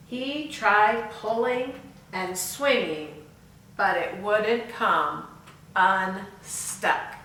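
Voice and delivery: put-on slow, expressive read-aloud for kids; storybook reading. Teacher reading the story to children, slow and expressive. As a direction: read it to the class slowly.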